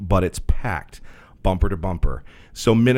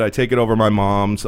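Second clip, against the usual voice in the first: plain reading voice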